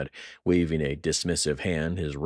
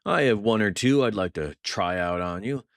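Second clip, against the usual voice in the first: venomous retort; 4 semitones higher, 4 dB louder than usual. Acted. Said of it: "his voice laced with venom".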